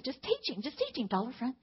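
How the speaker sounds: pleading, rising to a near-cry; begging the teacher, voice climbing as tears come; tearful pleading. Retold or imitated. Mother begging son's teacher, tearful and rising. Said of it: "And, and I start crying".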